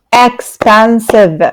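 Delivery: Expensive said slowly, syllables spread out; slow model word. Shown as a demonstration. Teacher showing students the syllables, slowly. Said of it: "That's three syllables".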